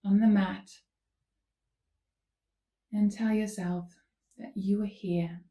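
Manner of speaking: unhurried calm cueing with long pauses; guided yoga instruction. Real, not acted. Yoga teacher leading listeners into gentle stretches, calm guiding voice. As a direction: guide them gently through each movement.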